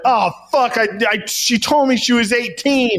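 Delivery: a touch of cornered panic; mock panic. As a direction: stumble into a guilty protest. Acts Bobby caught and panicking.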